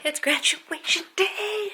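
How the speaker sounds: high, slow sing-song; drawn out; excited announcement. Acted.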